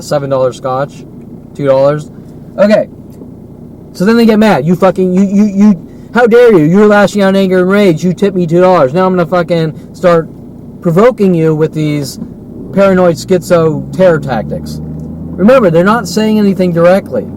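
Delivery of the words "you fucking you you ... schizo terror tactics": angry. Retold or imitated. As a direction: snap at him like an insulted waitress. Retold angry waitress at small tip.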